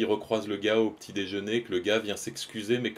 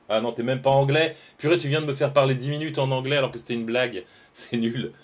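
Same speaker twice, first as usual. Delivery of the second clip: much louder, higher exclamation, laughing at the end; loud indignant outburst; 5 semitones higher, 9 dB louder than usual. Real, not acted. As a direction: blurt it out, caught out by a joke. Realises the American was a joke.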